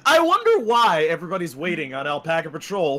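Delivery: hammed-up wondering; sarcastic feigned curiosity; mock puzzlement. Feigned puzzlement, teasing waiting player.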